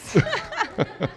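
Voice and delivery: loud high giggle; high laugh. Real, not acted. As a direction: burst out giggling. Esposa ri da história. (risada aguda)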